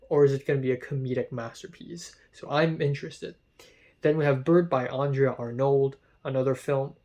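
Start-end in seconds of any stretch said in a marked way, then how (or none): 4.9-5.9 names said with a light French accent, nasal A. Real, not acted. Film vlogger slips into a French accent on the director's name. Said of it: "in a French accent".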